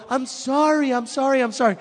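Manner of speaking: high, loud, panicky sorries; high loud retold panic; frantic apology. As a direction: plead fast and high.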